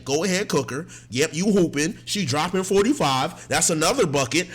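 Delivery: loud hype commentary; hype cheering. Retold or imitated. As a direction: call it like a game from the bench. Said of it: "I just kept saying".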